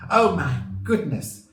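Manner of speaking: high, loud exclamation of surprise; astonished. A narrator's reading. Amelia realises Grandma is on the loose, astonished. Wife reacts to news, story.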